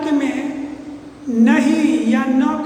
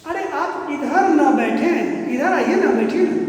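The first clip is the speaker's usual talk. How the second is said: coaxing invitation. Shown as a demonstration. Teacher acting a polite host inviting a guest to sit. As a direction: invite them kindly to sit here. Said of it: "और यही हो गया".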